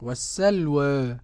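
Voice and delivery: slow "والسلوى", ending between aa and e; taqlil, slightly tilted ending. Shown as a demonstration. Student repeats Abu Amr's reading, "والسلوى" with taqlil. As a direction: echo "والسلوى" with a half-tilted last vowel. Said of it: "وقرأ بالتقليل فقط أبو عمرو".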